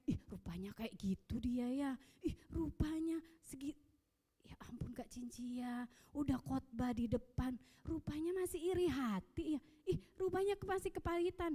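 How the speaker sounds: mock gossip. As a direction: play a catty churchgoer gossiping. Menirukan gosip jemaat. (menirukan gunjingan jemaat yang sinis)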